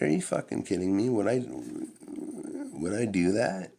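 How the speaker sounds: high, fast indignant disbelief; teen protesting innocence to his mom; incredulous denial. Retold or imitated. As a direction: sound utterly offended at the idea. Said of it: "And I was like".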